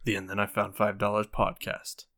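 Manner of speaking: put-on booming old-timey recap voice; dramatic announcer. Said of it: "Just do the old-timey one".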